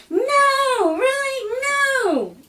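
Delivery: coworkers' loud, high, laughing disbelief. Retold or imitated. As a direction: squeal it through the giggles.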